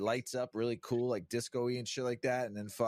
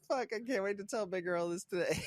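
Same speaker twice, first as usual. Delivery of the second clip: gleeful shout; 9 semitones higher than usual. Retold or imitated. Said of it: "I was so mad at myself".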